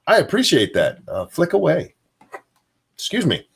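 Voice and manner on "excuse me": hiccuping mid-sentence; hiccups. Real, not acted. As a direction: talk through the hiccups. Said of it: "You gave me the hiccups".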